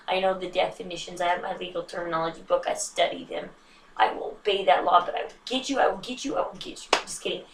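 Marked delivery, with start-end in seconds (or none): 5.0-6.9 mock threat. Mock threat, fading to whisper.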